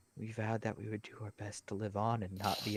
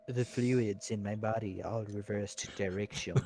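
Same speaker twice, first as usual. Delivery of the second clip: low brooding edgelord delivery; brooding fake-deep mutter; 2 semitones lower than usual. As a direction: say it like a dark edgelord. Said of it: "saying that like an edgelord".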